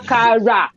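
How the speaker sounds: akara in three full syllables; akara pronounced fully. Shown as a demonstration. Teaching coworkers the food's name, akara pronounced fully. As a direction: say "akara" with every vowel sounded. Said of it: "Pronounce it".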